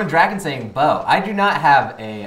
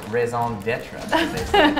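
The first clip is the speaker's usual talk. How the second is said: mock French accent; much slower than usual. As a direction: say it like a hammy Frenchman. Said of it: "You like my French accent?".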